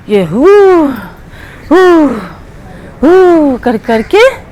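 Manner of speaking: slow drawn-out hoo sobs; mock sobbing hoo. Panda walks along in pain, slow mock sobs. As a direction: sob hoo hoo like a crying cartoon. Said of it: "ये रो रहे हैं".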